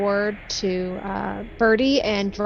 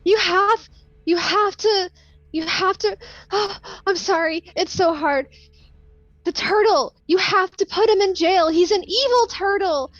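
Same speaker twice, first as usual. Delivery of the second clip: high, tearful pleading; sobbing plea; 9 semitones higher than usual. Acted. A grieving woman begs the priest to jail the evil turtle, tearfully. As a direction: beg through tears for them to act. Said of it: "she's just sobbing her eyes out".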